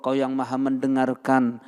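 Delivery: contoh doa yang merendah, memelas; humble begging prayer. Shown as a demonstration. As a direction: minta kepada Allah seperti orang mengemis. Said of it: "Buka tangannya, ngemis sama Allah". (contoh doa memelas kepada Allah)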